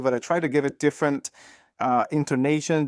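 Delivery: ordinary talk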